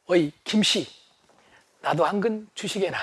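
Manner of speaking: polite nobleman asking gently; gentle smiling. Acted. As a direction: smile while you ask kindly. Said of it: "부드럽게 웃으면서".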